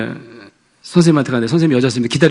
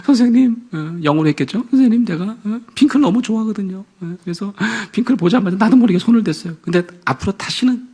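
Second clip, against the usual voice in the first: higher, small apologetic voice; light child voice; 6 semitones higher than usual. Retold or imitated. Daughter to her teacher, higher apologetic voice. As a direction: confess like a sheepish little girl.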